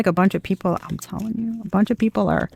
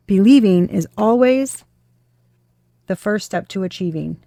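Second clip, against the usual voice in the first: slow message read. Shown as a demonstration. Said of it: "That's what it just said".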